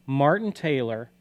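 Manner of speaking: slow and deliberate, like dictating a search; slow, spelled-out dictation. Shown as a demonstration. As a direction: say it slowly so they can type it. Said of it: "So you might type into".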